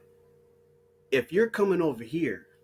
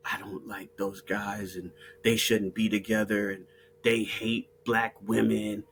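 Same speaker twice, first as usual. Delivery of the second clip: mock quote; 10 semitones lower, 5 dB quieter than usual. Quoting immigrants mockingly.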